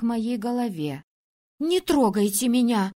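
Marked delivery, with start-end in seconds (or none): 1.6-2.9 angry hiss. Acted. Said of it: "гневно прошипела я".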